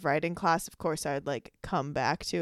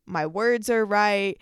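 slow, stiff, louder word-by-word delivery; robotic reading voice; 3 semitones higher, 5 dB louder, slower than usual. Shown as a demonstration. Host showing how she sounds reading a script, slow and stiff. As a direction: read it like a robot sticking to a script. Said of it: "I would start talking like this".

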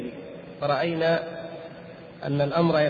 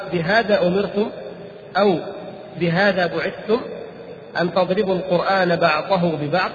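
disapproving question. Retold or imitated. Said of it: "سألهم سؤال المنكر".

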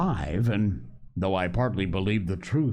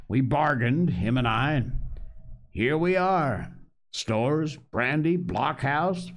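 put-on higher, coaxing old pirate; Long John Silver; 4 semitones higher than usual. Pirate cook offers the boy a choice, coaxing. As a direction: sea cook laying down terms with a grin.

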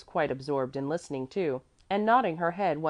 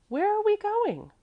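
put-on much higher, louder little-child voice; curious child; 5 dB louder than usual. A narrator's reading. Mäzli asks where they are going, piping child voice. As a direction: pipe up as an inquisitive child.

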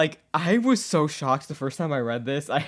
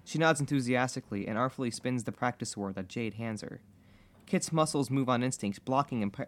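calm, even read-aloud; measured storytelling voice; story narration; 3 dB quieter than usual. A narrator's reading. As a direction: read the fanfiction out as an unhurried narrator.

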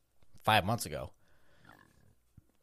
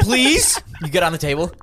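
laughing; 4 semitones higher, 7 dB louder than usual. Pretend. Mock waxing scene, laughing.

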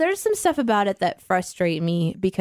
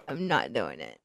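quiet; 13 semitones lower, 10 dB quieter than usual. Acted. Refusing, voice drops.

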